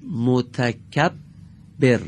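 متکبر drawn out very slowly, doubled ب held; slow gemination demo. Shown as a demonstration. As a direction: stretch متکبر, lean on the double b. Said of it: "دقت کنید".

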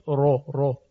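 thick, dark R in رو; heavy R. Shown as a demonstration. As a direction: isolate رو with a full, heavy R.

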